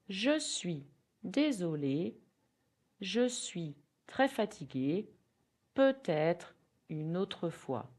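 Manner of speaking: chunked, careful French with pauses; teacher drilling an excuse; slow repeat-after-me. Shown as a demonstration. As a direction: model it slowly, chunk by chunk. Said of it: "Can repeat".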